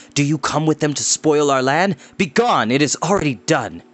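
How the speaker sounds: bitter farmer driving off riders; angry farmer. Acted. Farmer to a former friend, bitter and angry.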